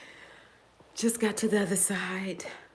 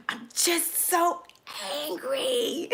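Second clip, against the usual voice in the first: laughing confession; 10 semitones higher, slower than usual. Real, not acted. Confessing Aries moon made her angry.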